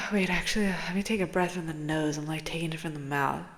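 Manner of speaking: whisper. Real, not acted. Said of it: "whispering while breathing".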